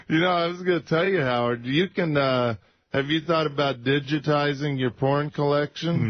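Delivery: salesy pitch voice; smooth sales pitch; infomercial voice. Real, not acted. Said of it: "You just sounded like an infomercial".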